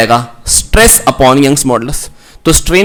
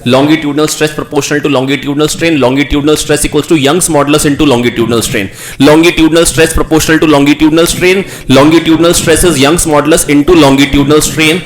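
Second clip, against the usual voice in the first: slow recitation; much slower than usual. Shown as a demonstration. Teacher reciting the law for students, slow and even. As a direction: drill the formula into memory, word by word.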